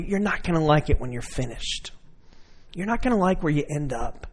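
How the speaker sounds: soft, calm, lightly voiced reassuring God; gentle reassurance. God speaking gently to a struggling child, soft reassurance. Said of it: "God's holding your hand and saying".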